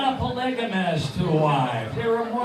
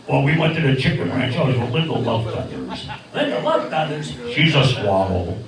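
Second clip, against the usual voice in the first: puppet bird voice; 7 semitones lower than usual. Acted.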